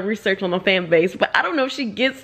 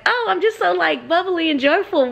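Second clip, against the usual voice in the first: bubbly self-quote; 6 semitones higher than usual. Retold or imitated. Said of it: "I'm always like".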